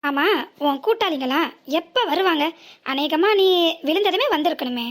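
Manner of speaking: mock her missing accomplices; angry taunting. Driver sneers at the woman about her absent accomplices, angrily.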